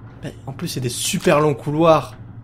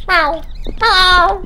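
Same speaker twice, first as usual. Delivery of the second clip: very high imitated meow; mock meow. Player meowing at the game cats in a very high voice. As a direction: meow like a little cat.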